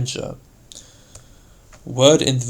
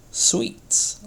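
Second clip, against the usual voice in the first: SWEET said high and lightly voiced; a delicate, expressive SWEET; word-painting; 8 semitones higher than usual. Shown as a demonstration. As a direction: let SWEET sound like its meaning. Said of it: "bring out the meaning of the word by its sound".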